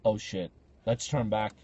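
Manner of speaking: low, slow muted alarm; mock cowardly retreat. Tough guy chickening out at the asylum, deflated. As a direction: drop the bravado and mumble low. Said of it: "all I heard was like".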